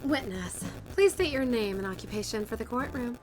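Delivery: stilted courtroom judge voice; odd reading voice. Acted. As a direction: read it in a strange put-on way. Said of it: "Don't know why I read it that way".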